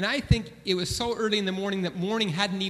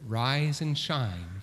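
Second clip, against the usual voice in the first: wistful memory; 3 semitones lower, much slower than usual. Real, not acted. Son longing for his late mom's wake-up call, wistful and slow. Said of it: "I wish that I could hear".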